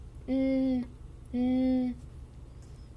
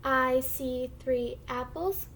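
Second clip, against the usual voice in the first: slow, stretched model sentence for beginners; slow model reading; much slower than usual. Shown as a demonstration. Teacher models a sentence for the class to echo, slow model reading. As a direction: read slowly word by word, rising at the end. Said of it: "I'm gonna read the sentence first".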